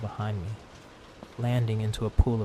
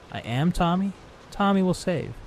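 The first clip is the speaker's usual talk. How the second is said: put-on much higher, eerie child-like machine voice; childlike monster voice; 8 semitones higher, 5 dB louder than usual. A narrator's reading. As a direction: speak as a haunted toy train. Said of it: "high-pitched and feminine, like a child's".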